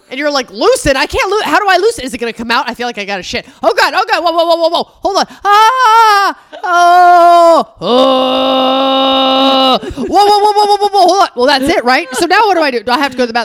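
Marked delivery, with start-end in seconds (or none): 0.5-11.3 high, loud, frantic babble, oh's drawn out. Imitating the other speaker's reaction during a colonic: imitating someone panicking. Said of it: "you were vulnerable with a tube up your butt".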